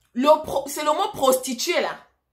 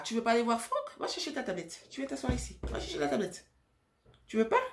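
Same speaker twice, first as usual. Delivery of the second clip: quiet aside; 8 dB quieter than usual. Real, not acted. Aside to her child mid-video. (aparté à voix basse à un enfant)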